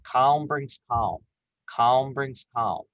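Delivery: slow, even, steady repetition; slow calming mantra. Shown as a demonstration. Coach calming herself when worked up, slow soothing mantra. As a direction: repeat it slowly, calming yourself. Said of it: "telling yourself over and over again".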